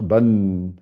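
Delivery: "ban" drawn out onto a sounded n; n at the end. Shown as a demonstration. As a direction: linger on the final n of "ban". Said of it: "N E à la fin".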